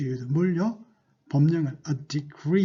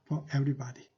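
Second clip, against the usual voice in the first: slow model reading; much slower than usual. Shown as a demonstration. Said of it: "자, 이어서 해볼까요?".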